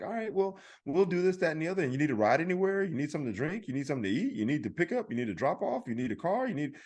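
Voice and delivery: attentive service advisor. Retold or imitated.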